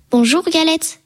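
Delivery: lightly voiced flattering fox; sly fox. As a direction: lure her in with a fake sweetness. Sly fox greets galette.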